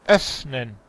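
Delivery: "Öffnen" with a hissing, drawn-out f. Shown as a demonstration. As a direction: blow through the f in "Öffnen". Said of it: "más aire".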